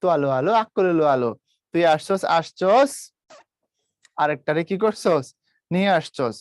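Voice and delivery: a lightly done Bogura accent; Bogura dialect. Shown as a demonstration. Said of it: "এরা হচ্ছে ওদের accent".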